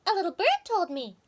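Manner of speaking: high, knowing chipmunk voice; chipmunk wife. Acted. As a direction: let on that you know, pitched high. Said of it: "said Missus Chippy Hackee".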